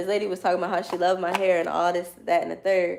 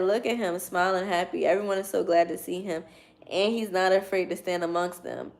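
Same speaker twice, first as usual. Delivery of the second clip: reading aloud. Real, not acted. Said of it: "Let me read it to you".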